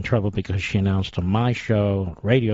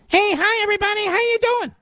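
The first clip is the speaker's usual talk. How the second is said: much higher, squeaky mock of a rival host; mocking Minnie Mouse voice. Host mocking a rival's voice as Minnie Mouse, squeaky and high. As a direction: mimic a prepubescent boy's voice, way up high. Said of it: "with his prepubescent voice, he sounds like Minnie Mouse".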